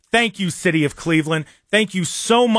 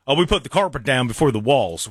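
mocking the owner; 5 semitones lower than usual.

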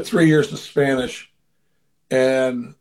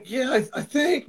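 higher, unsure, cracking reply; higher cracking voice answering Roberto; 8 semitones higher, 4 dB quieter than usual. Retold or imitated. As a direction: let the voice crack like a caught kid. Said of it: "My voice is cracking".

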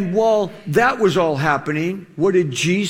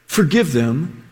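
tender plea; 8 semitones lower than usual. Retold or imitated. Jesus on the cross asking the Father, tender. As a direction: plead gently, with a lower voice. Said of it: "He says".

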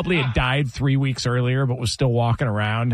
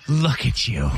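imitating dad. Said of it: "Do the impression".

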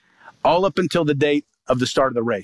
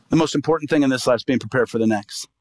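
voice of the Lord repeated; 4 semitones lower than usual. Retold or imitated. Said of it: "heard the voice of the Lord".

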